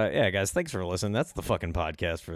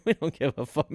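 higher, put-on dismissive government voice; mock government voice; 7 semitones higher than usual. Mocking the government's attitude to UFO fans. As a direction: toss it off like an uncaring official.

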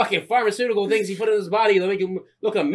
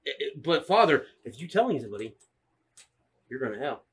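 put-on kid threatening priest; 4 dB louder than usual.

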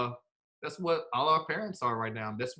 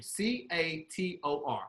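spelling it out; 2 semitones higher, 5 dB quieter, slower than usual. Shown as a demonstration. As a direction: spell it letter by letter, slowly. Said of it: "I'll spell it for you".

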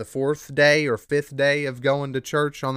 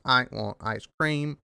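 softer, slow mock speech machine; robot voice; 4 dB quieter, slower than usual. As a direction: drone it like a cheap speech synthesizer. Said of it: "I just sound like the SpongeBob robot".

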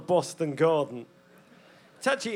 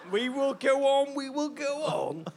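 higher defiant declaration; defiant rallying cry; 7 semitones higher than usual. Acted. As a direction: proclaim it defiantly.

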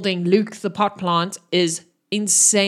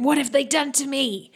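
panicked crying; 6 semitones higher than usual. Acted. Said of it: "he's shouting and he's screaming".

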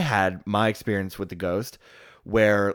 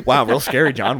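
sarcastic; 6 dB louder than usual. Retold or imitated. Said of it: "Scary story, John".

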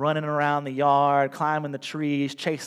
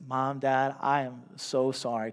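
tearful apology. Acted. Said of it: "Tears running down his eyes".

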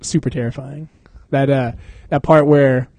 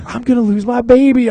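mock panicked mom; 8 semitones higher, 4 dB louder than usual.

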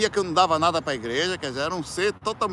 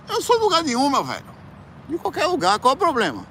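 much higher, louder defiant cry; defiant outburst; 10 semitones higher, 5 dB louder than usual. Real, not acted. Defending going to every religion, with a defiant cry. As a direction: throw it out as a challenge. Defiant claim of belonging nowhere.

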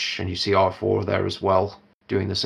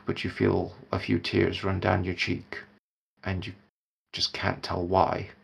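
somber narration. A narrator's reading. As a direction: set a sad, heavy scene gently.

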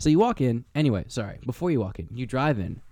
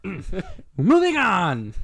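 deliberate; 7 semitones higher, 3 dB louder, much slower than usual. Real, not acted. Pointedly changing the subject.

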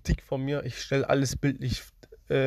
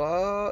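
short high mock scream, held back; imitated scream; 5 semitones higher than usual. Showing listeners how she screamed, restrained high mock scream. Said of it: "so richtig laut".

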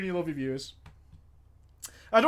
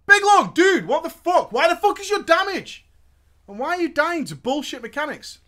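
loud furious raid leader; angry yelling; 9 semitones higher, 6 dB louder than usual. Retold or imitated. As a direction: yell it at the slacker.

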